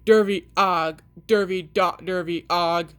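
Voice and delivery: a hint of a bellowing pirate; egg-shaped toy pirate, lightly voiced. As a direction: mildly growl like a broken toy pirate. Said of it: "pirate that bellowed".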